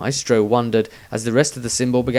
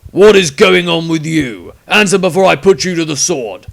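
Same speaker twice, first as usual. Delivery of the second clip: threatening witch hunter; 6 semitones higher, 10 dB louder than usual. A narrator's reading. Witch hunter threatening the wizard at sword point, loud menace. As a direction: growl out the threat. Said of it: "Malvanius asked".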